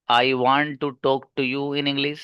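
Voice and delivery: very slow word-by-word English; halting, each word spaced out like a beginner; slow, broken English. Shown as a demonstration. Teacher mimics a beginner, slow word-by-word. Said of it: "पहला वाला बच्चा है वो कह रहा है".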